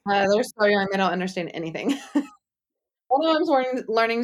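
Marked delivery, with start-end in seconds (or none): 3.1-4.2 tertawa sambil bercerita, suara naik; laughing. Real, not acted. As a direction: laugh through the words, voice lifted. Laughing while telling funny story.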